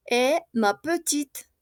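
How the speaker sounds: petite said slowly, ending on a t sound; silent final e. Shown as a demonstration. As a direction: stop petite on the t, no final vowel. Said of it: "no se pronuncia".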